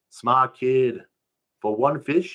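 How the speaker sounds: can't believe the price; disbelieving. Acted.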